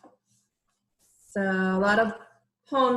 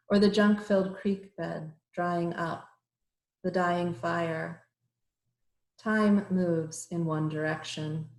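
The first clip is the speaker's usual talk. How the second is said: measured verse with pauses between lines; deliberate, evenly paced poem recital; poetry reading. Acted. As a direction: lift each line's start, let it fall away. Reads her poem aloud.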